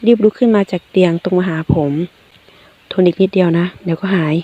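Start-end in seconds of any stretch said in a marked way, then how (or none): 2.4-4.4 slow, soothing reassurance; gentle. Acted. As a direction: coax him through the sickness, very slowly. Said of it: "พูดเสียงอ่อนโยน".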